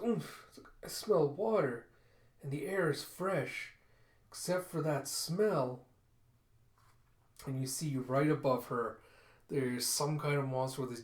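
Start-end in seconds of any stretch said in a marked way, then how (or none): 0.0-5.8 slow, higher-pitched character voice; fox girl voice. Acted. Kippa heading down stairs, smelling water, high fox girl voice. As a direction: raise the pitch and take it slowly, noticing things.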